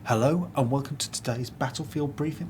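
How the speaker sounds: lightly voiced presenter intro, a bright announcer lilt; Joey impression. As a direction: play a cheery video host opening the show. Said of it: "That's my Joey impression".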